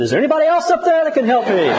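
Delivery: high, calling out while laughing; mock plea for a better rescuer; desperate shout. Punchline man calls up again, laughing high shout. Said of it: "And he said".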